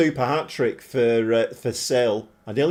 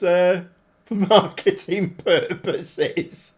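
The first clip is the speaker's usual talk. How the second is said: laughing; 2 semitones higher, slower than usual. Real, not acted. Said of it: "I don't know why I'm laughing".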